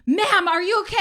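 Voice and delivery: high, loud retold check on her; calling out urgently. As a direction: imitate a responder calling to someone.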